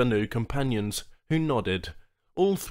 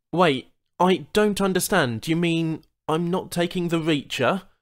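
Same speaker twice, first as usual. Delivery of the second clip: surprised; 6 semitones higher, 8 dB louder than usual. Acted. Charl surprised by news.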